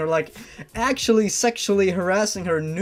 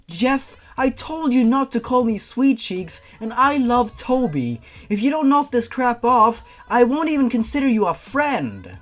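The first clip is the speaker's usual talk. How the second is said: higher, lightly put-on girl's voice; indignant heroine; 4 semitones higher, 4 dB louder than usual. Heroine telling Jeff off, higher huffy voice. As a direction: scold him, mildly huffy.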